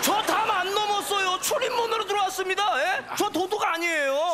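hurried, mock-outraged protest; indignant denial. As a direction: fire back as if wrongly accused. Customer denies climbing the wall.

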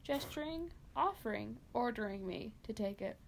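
story narration. Acted. Reads a dark Christmas story.

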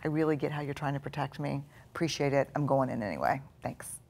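softly thanking the inner critic; calm reassuring reply. Shown as a demonstration. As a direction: kindly dismiss the fear. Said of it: "turn toward it and say".

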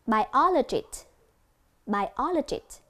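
"Biologist" with O stressed; "Biologist" said as bai-O-lo-gist; stress on second syllable. Shown as a demonstration. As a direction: punch the O in "Biologist". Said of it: "nhấn ở âm thứ".

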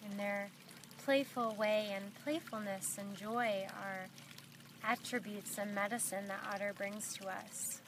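unhurried meditation guide with long pauses; guided meditation. Acted. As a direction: gently lead them inward, leaving long silences between phrases.

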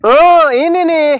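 slow mock-indignant shout; angry recognition. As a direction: point him out with rising anger. Confronting rival.

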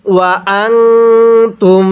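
ওয়া আনতুম with the ন in আনতুম hummed nasally; ghunnah on noon. Shown as a demonstration. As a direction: give the ন in আনতুম a nasal hum. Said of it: "নুন সাকিনটাকে গুন্নাহ করে পড়তে".

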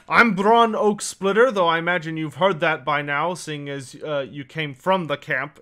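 lightly voiced dwarf introducing himself; a hint of a dwarf elder, firm opening; dwarf character. Dwarf introduces himself to a newcomer, lightly voiced character.

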